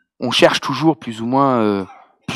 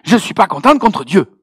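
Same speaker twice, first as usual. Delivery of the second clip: raised, indignant imitation of Ivorian accent; 6 semitones higher than usual. Sister airs her grievance against God, mock-indignant Ivorian accent. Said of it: "avec son bel accent ivoirien".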